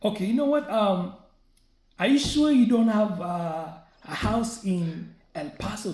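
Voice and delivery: pushy agent voice. Retold or imitated. Scam agent questioning him about a house, lightly voiced. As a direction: press him like a suspicious agent. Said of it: "the lady's like".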